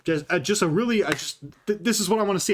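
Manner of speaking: stumbling, stuttering restarts. Real, not acted. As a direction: trip over the words, stuttering. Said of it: "I'm fucking stuttering".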